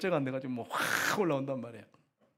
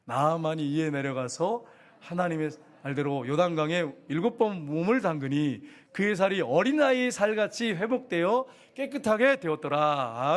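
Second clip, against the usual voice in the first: slow, drawn-out Bible recitation; scripture reading; slower than usual. A narrator's reading. Pastor leading the congregation in reading, solemn recitation. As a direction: read the verse out deliberately, stretching the phrases.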